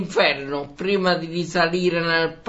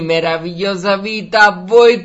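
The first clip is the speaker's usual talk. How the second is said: Nunzio Filogamo; 3 semitones higher, 5 dB louder than usual. Retold or imitated. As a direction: welcome the far-off audience like a vintage presenter. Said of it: "Come diceva il buon Nunzio Filogamo".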